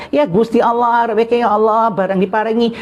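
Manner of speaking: a gentle hint of an old villager asking God; imitating a Javanese elder's prayer. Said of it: "Dia minta". (tiruan ringan doa orang tua Jawa)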